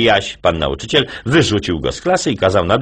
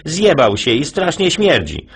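put-on kid voice; 9 semitones higher than usual. Jasio complaining to teacher, high kid voice.

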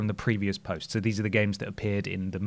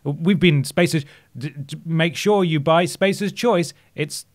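upbeat brainwashed company man; corporate slogan voice; 6 semitones higher, 4 dB louder than usual. Retold or imitated. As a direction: sell it like a cheesy ad. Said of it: "they're always just dropping slogans".

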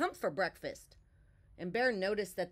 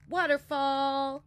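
high, loud, slow happy cry; excited cry; 7 semitones higher, 8 dB louder, slower than usual. A narrator's reading. Bear cries out joyfully, jumping into the waterfall. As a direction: Bear shouts with joy as he leaps. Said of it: "cried Bear".

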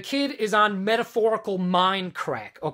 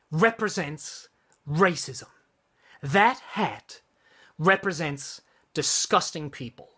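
halting retold scolding, word by word; deliberate, spaced-out mock reprimand; imitated berating; 4 semitones lower than usual. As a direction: imitate a disgusted accuser with heavy pauses. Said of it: "she berates the kid".

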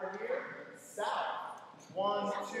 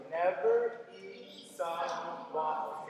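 slow demo; 2 semitones lower, 3 dB louder, slower than usual. Shown as a demonstration. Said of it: "So it's gonna go".

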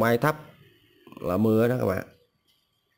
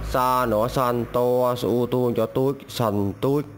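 slow spelling demo; slower than usual. Shown as a demonstration. Teacher spells the first word for learners, slowly. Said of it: "Từ đầu tiên".

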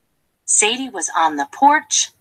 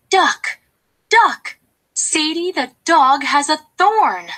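excited calling; 6 semitones higher than usual. Acted. Hen calls out gossip to duck.

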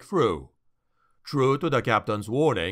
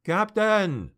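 calling out; 6 semitones higher than usual. Acted. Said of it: "a lookout called".

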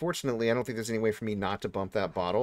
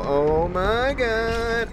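very slow, much higher and louder "Oh my God"; drawn-out horror; 13 semitones higher, 6 dB louder, much slower than usual. Real, not acted. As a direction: stretch it out in disbelief. Horrified as monster appears.

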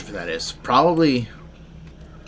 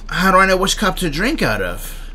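put-on kid voice; 7 semitones higher, 5 dB louder than usual. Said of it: "and I was like".

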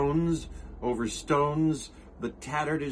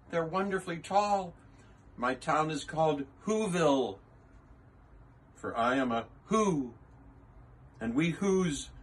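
tiny mayor; 4 semitones higher than usual. Acted. Who mayor thanking Horton, small higher grateful voice.

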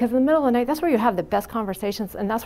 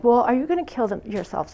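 matter-of-fact blunt question, usual pitch. Retold or imitated. Nurse screening a patient for suicide, blunt. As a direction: ask it bluntly, without softening. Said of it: "very bluntly like that".

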